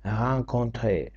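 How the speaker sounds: slow "Rencontrer" with the last r silent; silent final r. Shown as a demonstration. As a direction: say "Rencontrer" slowly, ending on an e sound. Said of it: "Р на кінці не промовляється".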